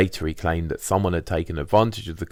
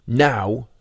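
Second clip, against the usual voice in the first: higher and louder, a declaring squatter; Richard's voice; 6 semitones higher, 5 dB louder than usual. Retold or imitated. Richard declaring to the squat, higher and louder. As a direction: announce it like a man fed up. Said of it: "said he".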